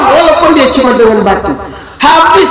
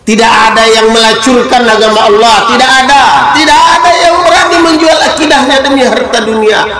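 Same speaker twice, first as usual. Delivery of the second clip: rising preaching shout. Acted.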